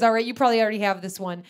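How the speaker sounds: fast and loud, cocky; confident mom. Retold or imitated. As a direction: rattle it off with confidence.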